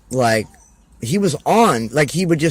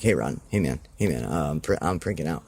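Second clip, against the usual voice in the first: lower, softer, hurried nerves; mock nervous panic; 8 semitones lower, 6 dB quieter than usual. Wrestler imitating his nervous partner, mock panic. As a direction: play him freaking out backstage. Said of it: "he'd be, like, freaking out".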